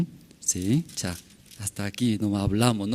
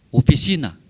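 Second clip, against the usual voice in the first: whispered; 3 semitones higher, 5 dB louder than usual. Real, not acted. Recalling the empty office.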